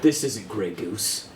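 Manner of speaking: put-on slow, slurred drunk captain; blackout drunk. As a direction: drag words like a drunk. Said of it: "I'm so hammered right now".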